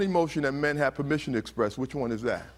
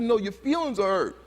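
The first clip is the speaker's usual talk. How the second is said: higher-pitched imitation of an insisting adult; insistent correction; 6 semitones higher than usual. Speaker voices an adult answering an angry boy, insistent correction. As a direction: contradict the boy firmly.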